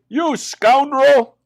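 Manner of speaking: slow, loud, high indignant insult; hammed-up outrage; outraged. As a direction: draw the word out in fury. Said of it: "he cried".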